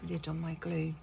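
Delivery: talking between slurps of a drink; words squeezed in around a sip; slurping a drink. Real, not acted. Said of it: "Sorry for slurping away".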